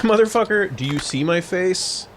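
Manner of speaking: overacted anime dub. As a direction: snarl it like a dubbed thug. Mocking game thug.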